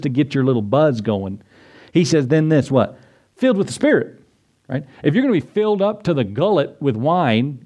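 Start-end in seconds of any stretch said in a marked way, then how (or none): 3.4-4.2 excited exclaim. Acted. Preacher exclaims the verse.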